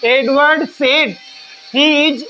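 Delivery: Edward said drawn out word by word, very slow; slow, careful dictation. Shown as a demonstration. Teacher rereading for the class, Edward said very slow. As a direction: spell Edward said out slowly so the class can write it. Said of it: "ध्यान से सुनिए".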